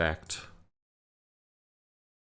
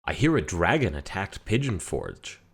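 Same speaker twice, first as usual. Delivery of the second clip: Skyrim NPC line; 5 dB louder than usual. Retold or imitated. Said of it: "So I said".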